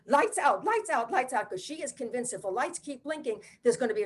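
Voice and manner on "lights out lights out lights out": mother's scream. Retold or imitated. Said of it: "my mother is screaming".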